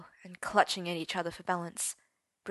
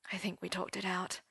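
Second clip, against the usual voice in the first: whispered reply; 6 dB quieter than usual. Acted. Merlin answering Percy quietly.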